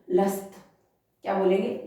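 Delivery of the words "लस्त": लस्त said short, with a clear final त; लस्त clipped on त; last not lassi. Shown as a demonstration. Teacher corrects लस्सी to लस्त for the class. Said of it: "लस्सी word न बोल के".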